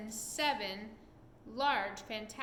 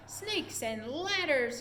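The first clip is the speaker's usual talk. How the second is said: slow, louder panicked yell; 4 semitones higher, 6 dB louder, slower than usual. A narrator's reading. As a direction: bellow it out in alarm. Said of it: "yelled the head".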